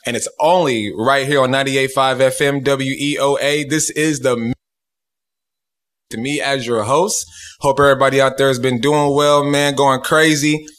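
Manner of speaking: hyped radio host greeting the listeners; radio show intro. Real, not acted. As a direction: roll through the show intro with swagger.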